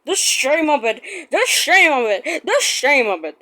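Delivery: indignant grumble; sulky engine grumbling. Acted. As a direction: complain about the shame. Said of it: "he grumbled".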